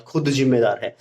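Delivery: खुद punched, with a mild attitude; teacher repeating the emphatic खुद; stress on खुद. Shown as a demonstration. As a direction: put weight on खुद, a bit of attitude. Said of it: "कोई attitude के साथ कह रहा है ये बात".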